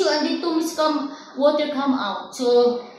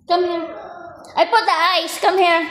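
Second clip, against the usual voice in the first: high, coaxing calls to come here; 5 semitones higher, 4 dB louder than usual. Real, not acted. Caregiver coaxing a hurt crying child, high and coaxing.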